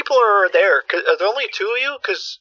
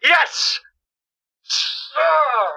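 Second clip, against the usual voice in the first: excited cheering; 9 semitones higher than usual. Real, not acted. Caller celebrates beating scammer.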